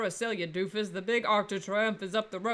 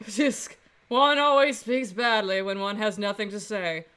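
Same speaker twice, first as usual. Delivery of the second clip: haughty, sneering rival; arrogant prosecutor voice. Acted. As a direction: look down your nose at him. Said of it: "that arrogant voice".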